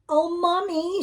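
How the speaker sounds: put-on high, bright-eyed child calling out to her mother; high-pitched child exclaiming; little girl exclaiming. A narrator's reading. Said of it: "she exclaimed".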